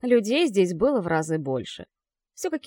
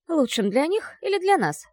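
indifferent; 8 semitones higher, 3 dB louder than usual. Acted. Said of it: "безразлично уточнила Ахара".

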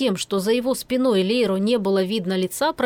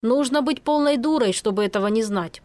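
grumbling. Acted. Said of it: "проворчал Финн".

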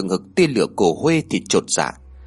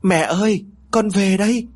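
calling out; 8 semitones higher than usual. A narrator's reading. Daughter getting up to call her mother, calling out. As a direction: call out brightly, pitched well up. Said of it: "đứng dậy lớn tiếng gọi".

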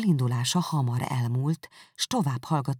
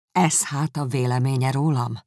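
exclaiming; 6 dB louder than usual. Acted. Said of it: "kiáltotta Darcy".

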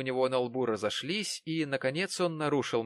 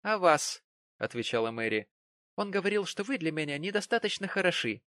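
put-on much higher, girlish; teasing Mary; 7 semitones higher than usual. A narrator's reading. Mary teases Jonas about his uncle. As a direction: needle him playfully.

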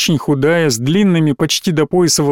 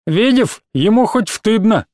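mocking lisp; 6 semitones higher than usual. Little boy mocks Khas.

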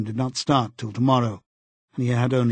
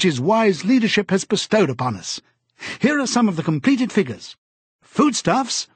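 much higher, louder, triumphant broadcast voice; eager telescreen announcer; 8 semitones higher, 3 dB louder than usual. A narrator's reading. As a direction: trumpet the good news like a state announcer. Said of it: "an eager, youthful voice".

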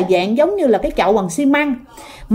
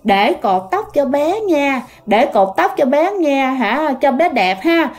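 lightly voiced, slow, drawn-out possessed chant; possessed muttered refrain; 2 semitones higher, slower than usual. Possessed woman keeps repeating she'll tie the child's hair, lightly voiced possession. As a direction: draw the words out slowly, lightly acted. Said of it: "tự nhiên cái miệng cứ nói vậy nè".

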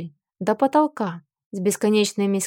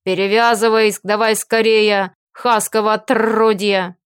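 a lightly voiced orc growl; guttural rough orc roar. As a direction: snap at him like a grumpy orc. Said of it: "недовольно рыкнул на Фила".

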